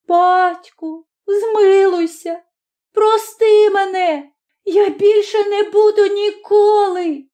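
put-on high, slow child's voice, pleading; a terrified boy begging mercy. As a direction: son begging his father for mercy, high and desperate. Boy's voice in story.

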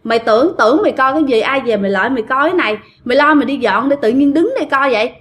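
mildly cross, quickened telling-off; lightly acted scolding in rapid bursts; retold scolding. Troupe women telling the young worker off for staring, mild scolding. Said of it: "mấy chị này mới chửi".

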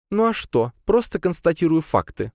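high, huffy spider grumble; grumbling. A narrator's reading. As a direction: grumble back, unconvinced. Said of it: "пробурчала Лея". (недовольное бурчание)

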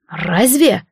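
usual speaking voice

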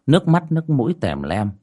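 measured storytelling voice over music; story narration. A narrator's reading. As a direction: tell the ghost tale steadily. Reads ghost story over music.

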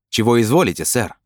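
lightly voiced obliging waiter; a polite waiter's question, lifted at the start. A narrator's reading. Waiter asks Brin for his order, lightly obliging. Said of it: "спросил официант".

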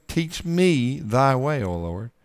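"Teach me thy way" with "me" leaned on slowly; stress on me. Shown as a demonstration. Preacher repeats the verse to point out who asks. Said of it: "What did he say?".

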